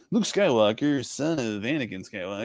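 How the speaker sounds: hammed-up storybook introduction with swooping pitch; mock-portentous naming, pitch rising and falling; mock exposition. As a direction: parody a needlessly grand character introduction. Mocking needless spelled-out exposition.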